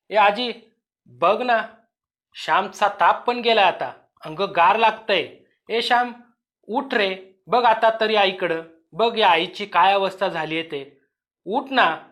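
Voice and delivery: put-on urging the boy to wake, voice climbing; desperate pleading. Mother begging dead child wake. (आजीला आणि बाळाला घाबरून विनवणी)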